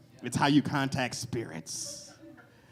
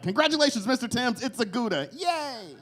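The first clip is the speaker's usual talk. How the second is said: mock doctor; 10 semitones higher than usual. Mock doctor announcing cheese birth.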